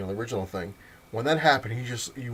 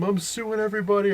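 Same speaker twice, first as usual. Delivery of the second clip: angry threat; 9 semitones higher, 4 dB louder than usual. Retold or imitated. Knocked-out guy threatens.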